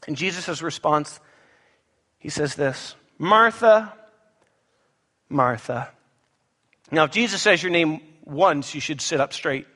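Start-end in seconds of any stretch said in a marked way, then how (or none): 3.2-3.9 MARTHA raised and drawn out as a first call; rebuking intonation. Acted. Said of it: "You can hear the intonation". 5.3-5.9 MARTHA dropped low after a pause; rebuking intonation. Acted. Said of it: "You can hear the intonation".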